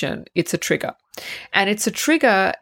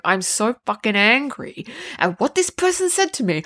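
imitated fuming, pitch raised; angry mulling; 4 semitones higher than usual. Host mimics someone mulling over what was said, mock angry. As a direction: act out stewing over a grievance. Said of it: "You just sit there mulling over it".

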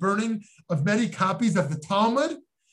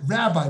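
"Rabbi" said pointedly, with a falling tone; pointed emphasis; 3 dB louder than usual. Retold or imitated. Ultra-Orthodox rabbi distancing a non-Orthodox rabbi, "Rabbi" pointedly emphasized. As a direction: put weight on "Rabbi" to set up a barrier. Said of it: "I emphasize the word rabbi".

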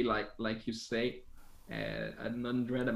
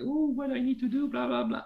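inner voice; 13 semitones higher than usual. Retold or imitated. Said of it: "My mind is like".

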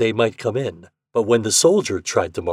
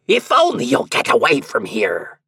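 loud devilish plea; put-on demon voice, exasperated; prince of hell; 4 semitones higher, 5 dB louder than usual. A narrator's reading. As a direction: beg the nuisance to leave, as a devil. Prince desperate to be rid.

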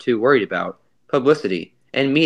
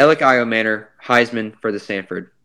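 flat deadpan, no emotion at all; emotionless; 3 semitones lower than usual. Pretend. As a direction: read it like a robot, short and blank. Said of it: "I'm gonna show no emotion whatsoever".

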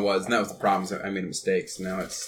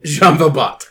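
excited shout; 6 semitones higher, 12 dB louder, slower than usual. Acted. Repeating pun loudly.

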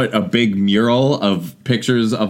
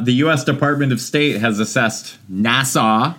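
reading advisory. Acted. Reads State Department advisory.

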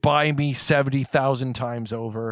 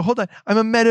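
put-on higher, louder Valley Girl getting stuck; Tonks voice stumbling; 7 semitones higher, 6 dB louder, much faster than usual. Shown as a demonstration. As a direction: stall mid-word in a sassy character voice. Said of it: "I have to slow it down".

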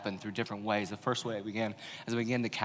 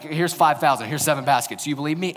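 exasperated Jesus; 5 semitones higher, 9 dB louder than usual. Retold or imitated. Jesus voiced, listing miracles, exasperated.

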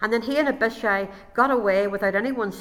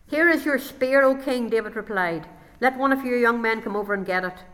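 calling across; 3 semitones higher, 4 dB louder than usual. Acted. David calls to the king.

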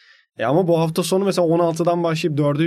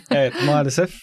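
laughing. Real, not acted. Laughing about his cough.

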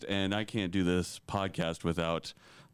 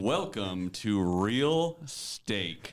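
sports announcer. Acted. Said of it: "You sound like a sports announcer".

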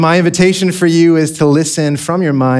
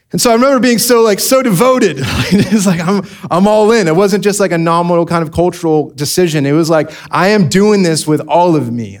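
excited devotion; 4 semitones higher than usual. Real, not acted.

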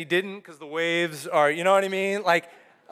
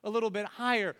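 mock disciples; 4 semitones higher than usual. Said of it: "Or like".

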